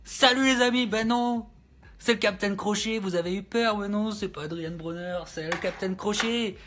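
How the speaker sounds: lively mock pirate captain greeting; hamming it up as Captain Crochet; pirate host voice. Captain greeting his podcast crew, a touch piratey.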